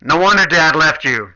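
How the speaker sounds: loud, whiny yell at mom from the back room; teen child yelling at mom in the store, loud and whiny; embarrassed kid yelling. Acted. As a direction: shout like a mortified teenager.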